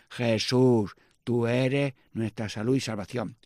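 slow, measured prayer refrain; slow litany response. Acted.

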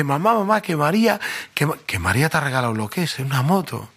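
high, breathless shout to mom; thrilled boy. Retold or imitated. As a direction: kid rushing home with big news. Boy runs home excited.

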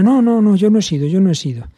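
put-on a kid caught out, insisting it wasn't him; little boy denying to his parents he broke it; child denying. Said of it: "si un niño ha hecho una travesura".

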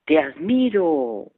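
slow echo of the praise; the mountain answering the father; echo reply. Retold or imitated. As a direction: let it come back like an echo. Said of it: "La voz respondió".

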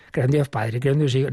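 mechanical, no meaning behind it; rattled off by rote. Shown as a demonstration. Priest mocking a rote recital of the creed. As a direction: reel it off like a memorised list. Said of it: "no debemos decirla como el que se ha aprendido la tabla".

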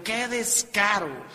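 mock-hysterical indignant wife; hysterical outrage, acted. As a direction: act out a wife's indignant outburst. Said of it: "histérica gritando".

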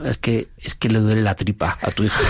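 words bubbling with real laughter as he explains; can barely hold back a laugh at the awkward excuse; laughing while speaking. Real, not acted. Priest on the phone to the mother, laughing through the excuse.

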